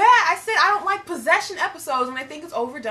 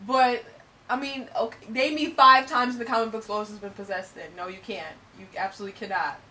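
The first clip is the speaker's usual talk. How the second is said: fake British accent; 3 semitones lower than usual. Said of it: "we're doing our accents".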